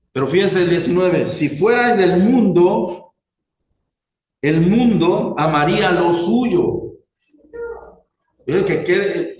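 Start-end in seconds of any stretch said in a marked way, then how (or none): 1.3-7.0 slow, measured Bible reading; slow proclaimed verse; scripture reading. Acted. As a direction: read the verse out deliberately, word by word. Reads scripture aloud to congregation.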